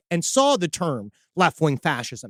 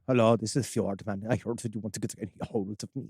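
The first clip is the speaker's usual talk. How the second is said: much lower, flat, bored monotone; 8 semitones lower, 9 dB quieter than usual. Acted. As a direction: drone it out like you couldn't care less. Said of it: "he is so bored".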